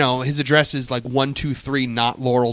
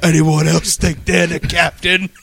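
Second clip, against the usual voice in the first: pirate voice; 2 semitones higher, slower than usual. Retold or imitated. Pirate voice threat.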